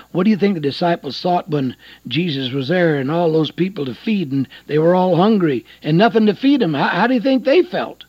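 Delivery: preacher's question, rising in force; preaching. Real, not acted.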